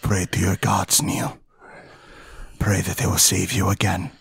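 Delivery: lightly voiced, hushed menace; menacing threat. Carmen tells Neil to pray, hushed menace. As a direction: threaten under the breath, with pauses.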